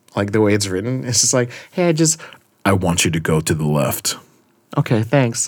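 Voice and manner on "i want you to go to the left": dropped, low authoritative voice. Acting out a comic character giving a command: lowered voice as Persuasion. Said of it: "if I just dropped my voice".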